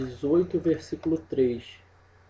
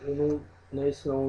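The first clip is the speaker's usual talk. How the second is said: ordinary talk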